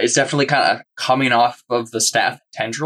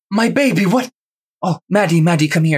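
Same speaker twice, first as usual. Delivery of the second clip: put-on Italian accent, crying out, higher pitch; 7 semitones higher than usual. Voicing the mother grabbing back her daughter: Italian accent. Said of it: "She's Italian?".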